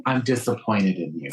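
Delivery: lightly voiced disappointed parent. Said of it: "like your dad or your parent".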